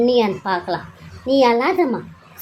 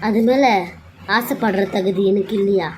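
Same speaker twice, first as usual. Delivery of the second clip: indignant; 2 semitones lower than usual. Acted. Bride challenging her husband.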